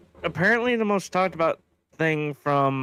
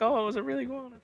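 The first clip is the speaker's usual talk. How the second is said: imitated freak-out; 10 semitones higher, 5 dB quieter, much faster than usual. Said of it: "'cause Des was freaking out".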